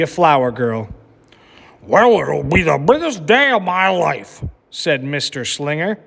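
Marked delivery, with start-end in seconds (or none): 1.8-4.4 a hint of a cheerful teacher; just a touch of a happy groom; lightly voiced teacher. A narrator's reading. Teacher announcing his wedding to the class, lightly voiced.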